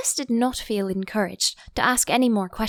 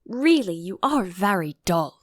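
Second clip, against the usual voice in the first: mild anger. Acted. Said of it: "said the Mock Turtle angrily".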